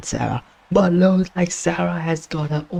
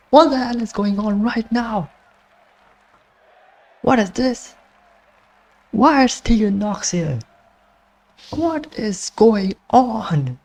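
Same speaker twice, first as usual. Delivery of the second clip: can't believe what's happening in the ring; stunned commentator; 5 semitones higher than usual. Real, not acted. Another wrestler interferes unexpectedly.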